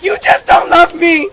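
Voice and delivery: loud, hammed-up sulky kid whining; whiny kid pleading, overplayed; mock whine. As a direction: throw a mock tantrum at mom. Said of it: "And you were like".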